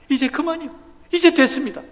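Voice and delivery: Moody crying out to God to stop. Retold or imitated. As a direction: beg God to stop, voice lifting. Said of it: "그는 소리쳤습니다".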